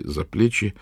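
usual speaking voice

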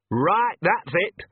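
high, slow, angry snarl. A narrator's reading. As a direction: snarl it as the last straw. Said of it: "snarled Nanny".

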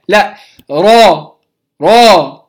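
را with a clean long ā, the first one slow; correct Rā. Shown as a demonstration. Teacher correcting the ending for students, clean vowel. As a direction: model را with no h or hamza. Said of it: "لا أقول راء".

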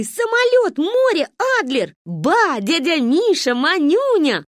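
высоко и громко перечислить; захлёбываясь от радости; ликуя. Acted. Дети ликуют, перечисляя. (восторженно)

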